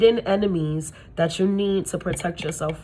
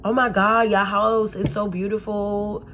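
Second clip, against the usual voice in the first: gushing fake praise; 2 semitones higher than usual. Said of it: "they come to your house and they're like".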